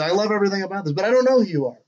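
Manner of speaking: halting, breathy actor with a high lilt; Jeff Goldblum impression. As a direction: stammer it out like a quirky movie star. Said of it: "Jeff Goldblum impression".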